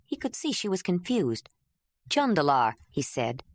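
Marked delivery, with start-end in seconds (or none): 2.1-2.7 "Jandalar" said once at an ordinary pace; a first, unhurried take of "Jandalar"; Jondalar, normal pace. Acted. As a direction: lower man's voice saying his name. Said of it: "then slower".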